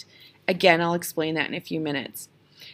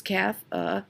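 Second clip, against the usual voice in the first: "cafeteria" in separate beats, strong and weak alternating; syllable by syllable; 4 dB quieter than usual. Shown as a demonstration. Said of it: "look at how many syllables".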